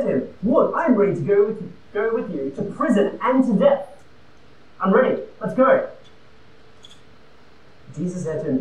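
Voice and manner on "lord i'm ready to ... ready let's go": eager boast. Acted. Peter voiced, eager boast.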